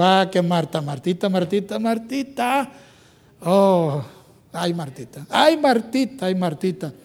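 soft, lingering "ay, Martita"; tender gentle rebuke. Retold or imitated. Jesus gently answering the fussing Marta, tender. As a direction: sigh her name fondly. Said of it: "Le dijo".

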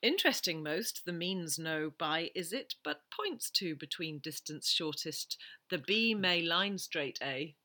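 backwards speech. Shown as a demonstration. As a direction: quote read word by word in reverse. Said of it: "I'm gonna say backwards".

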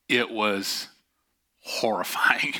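breathy whisper on one word; hushed whisper. Real, not acted. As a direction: drop to a whisper for the horror. Pastor whispers the story's climax.

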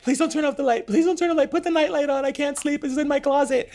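put-on very high, pleading little-kid voice; frightened child. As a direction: beg like a scared kid at bedtime. Acts out frightened child self at bedtime.

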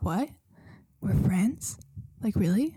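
loud, rising incredulous questions; mock disbelief. Retelling disbelief at being called friend.

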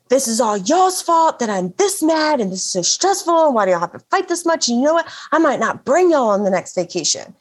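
hammed-up furious parent, rushing; imitating mom losing her temper at arguing kids; mock angry rant. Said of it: "I just lose my entire temper".

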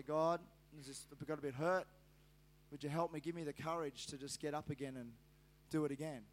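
low, soft plea to God; quiet prayer. Pretend. Preacher models asking God for courage, quiet prayer. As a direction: ask humbly, low and hushed.

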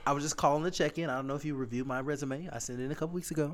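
polite job-seeker phone voice, no slang; code-switching phone voice. Shown as a demonstration. Host demos his phone voice to friends, polite and proper. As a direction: sound proper calling about a resume. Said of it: "Can I, can I?".

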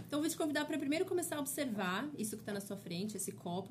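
calm, unhurried guiding voice; gentle mindfulness guide; guided meditation. Acted. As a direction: ease the listener into noticing. Guided mindful drinking exercise.

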